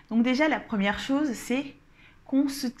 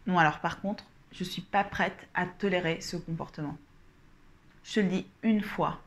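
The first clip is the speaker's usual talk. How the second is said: firm calm demo. Shown as a demonstration. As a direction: set a boundary calmly, with pauses. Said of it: "ce qu'il faudra dire à la personne, c'est ceci".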